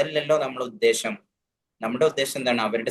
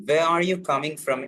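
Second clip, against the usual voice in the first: wrong version, drawn out; 3 semitones higher, much slower than usual. Shown as a demonstration. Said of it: "ഒരിക്കലും ചോദിക്കരുത്".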